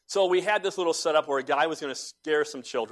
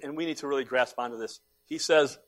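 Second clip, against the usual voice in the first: ordinary talk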